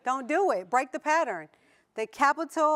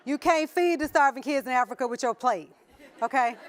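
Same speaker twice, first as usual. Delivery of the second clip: laughing. Real, not acted. Laughing while scolding joke.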